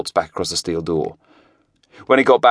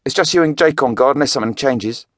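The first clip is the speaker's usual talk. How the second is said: higher, anxious answer; nervous older man; 6 semitones higher than usual. A narrator's reading. Money counter answering Craig, wary. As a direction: answer the boss warily.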